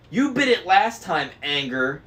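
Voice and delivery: high, loud squabbling crone; bickering hag. A narrator's reading. Driver bickering with her sister. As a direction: snap back like a bickering old witch. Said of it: "said the driver".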